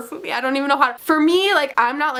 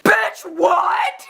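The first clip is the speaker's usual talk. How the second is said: high, loud incredulous squeal; retold shocked outburst; shocked disbelief; 7 semitones higher, 4 dB louder than usual. Retold shocked reaction to tweet.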